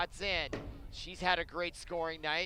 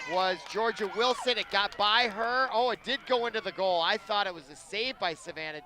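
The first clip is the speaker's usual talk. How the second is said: louder, higher, surprised goal call; excited goal call; 4 semitones higher, 6 dB louder than usual. Acted. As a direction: yell it as the ball slips in.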